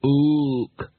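single ape hoot; ape grunt. Acted. Librarian orangutan replies.

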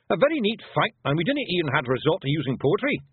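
high Scottish pictsie voice; pleased little Scots warrior; Feegle leader. Acted. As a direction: play a satisfied wee Scottish fighter.

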